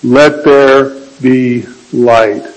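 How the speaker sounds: slow, hushed divine command; solemn voice of God. Acted. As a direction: speak it slowly as God's decree. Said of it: "And God said".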